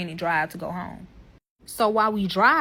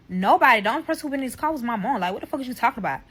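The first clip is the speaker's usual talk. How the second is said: rattled off fast, brushing it aside; quick, defensive boyfriend; defensive denial; 2 semitones higher, much faster than usual. Retold or imitated. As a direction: rush the denial like he's hiding something. Boyfriend voiced denying fast.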